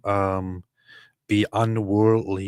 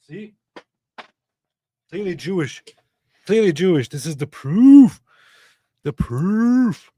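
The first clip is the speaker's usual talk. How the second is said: put-on Yiddish accent; 9 semitones higher, 7 dB louder than usual. Mock Jewish impression continues.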